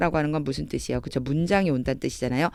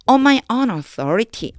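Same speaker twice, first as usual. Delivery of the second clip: slow reading; 6 semitones higher, 4 dB louder, much slower than usual. Shown as a demonstration. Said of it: "그럼 다시 해볼게요".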